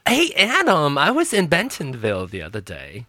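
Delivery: light Southern accent impression; Adam. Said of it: "an impression of Adam's".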